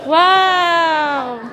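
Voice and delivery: amazed wow. Real, not acted. Seeing the apartment.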